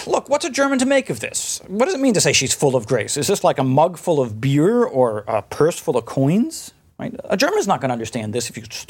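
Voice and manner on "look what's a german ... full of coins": lightly voiced exasperated Luther; a hint of a puzzled reformer asking his readers; quoting Luther. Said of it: "Luther comments on this".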